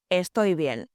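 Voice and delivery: "Estoy bien" dicho como afirmación, tono que cae; afirmación neutra. Shown as a demonstration. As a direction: di "Estoy bien" plano, cayendo al final. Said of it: "solo cambia la entonación". (afirmación con entonación descendente)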